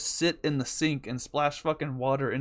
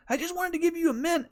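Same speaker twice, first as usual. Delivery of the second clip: put-on much higher, innocent little-kid voice; whiny little brother. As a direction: play the hurt little boy who meant well.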